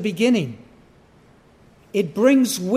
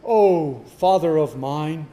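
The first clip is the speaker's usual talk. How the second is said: measured, unhurried appeal to a father; the way nobody cries out in danger; stately, without any urgency; mock formal address; 2 semitones lower than usual. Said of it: "You don't cry out".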